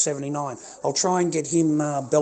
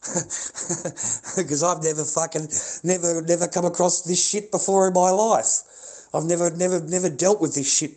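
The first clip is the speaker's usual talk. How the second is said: incredulous laugh through the words; laughing disbelief; 4 semitones higher than usual. Real, not acted.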